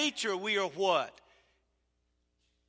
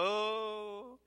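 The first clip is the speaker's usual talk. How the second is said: disappointed groan; 4 semitones higher than usual. Retold or imitated. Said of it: "others want to go".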